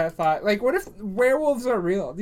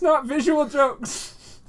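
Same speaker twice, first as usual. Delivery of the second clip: slow emphatic; 6 semitones higher, 3 dB louder, much slower than usual. Acted. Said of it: "Make audio jokes".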